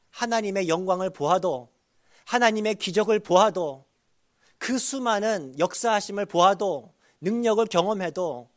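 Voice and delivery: high, forceful sermon delivery; emphatic preaching. Real, not acted. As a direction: drive each repeated clause home to the congregation. Preaches in rising repeated clauses.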